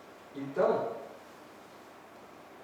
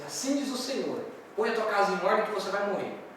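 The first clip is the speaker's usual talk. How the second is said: raised-pitch prophetic announcement; Isaías; 4 semitones higher than usual. Acted. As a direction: deliver God's verdict to the king. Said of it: "Imagina Isaías entrando lá".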